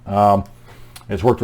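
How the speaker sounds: slurring through an Invisalign; words slushy from a dental aligner; slurred words. Real, not acted. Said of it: "if it sounds like I'm slurring my words".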